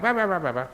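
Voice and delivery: high-pitched "bah-bah" mimicry of someone ranting; mock shouting. Monk mimicking someone who blasts you unfairly, mock shouting. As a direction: imitate a shouter's babble without real volume.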